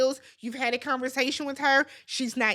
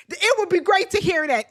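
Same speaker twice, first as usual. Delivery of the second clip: emphatic longing; 5 semitones higher, 6 dB louder than usual. Real, not acted. Yearning repeated line.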